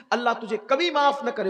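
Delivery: high, quick cry of condemnation; acted curse. Wronged girl cursing the man who violated her, crying out. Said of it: "اس نے بد دعا دی".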